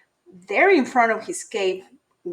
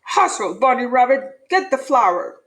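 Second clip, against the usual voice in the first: barking orders; 3 dB louder than usual. Acted. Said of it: "barking orders".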